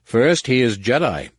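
respectful. Acted. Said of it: "he spoke with utmost respect".

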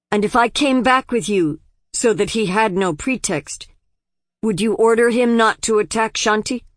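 urgent demand. Acted. Daughter bargains hotly with father.

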